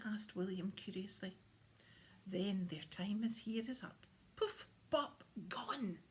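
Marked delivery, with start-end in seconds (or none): 2.3-6.0 bouncy, merry Santa on poof pop; gleeful Santa, poof pop; merrily. Acted. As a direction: pop the words out with glee. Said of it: "Santa said merrily".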